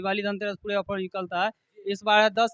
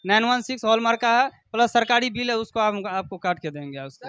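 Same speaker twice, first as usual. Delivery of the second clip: hard sell ad. Acted. Shopkeeper pitch continues.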